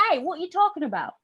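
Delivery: put-on suspicious soldier in a British accent. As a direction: challenge them in a British accent. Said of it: "the British soldier would be like".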